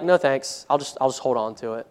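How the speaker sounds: soft, low mock refusal; small, muted brush-off; quiet refusal. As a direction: imitate someone meekly declining, voice dropped. Voices a listener declining God's offer.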